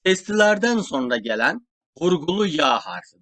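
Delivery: ordinary talk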